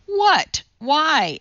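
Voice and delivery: put-on high, startled child; slightly alarmed. A narrator's reading. Judy thinks she's being blamed, alarmed. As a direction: squeak out a worried question. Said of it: "slightly alarmed".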